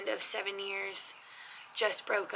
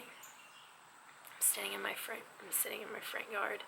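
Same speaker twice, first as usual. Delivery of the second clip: attitude; 11 dB quieter than usual. Shown as a demonstration. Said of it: "give me a little bit of attitude".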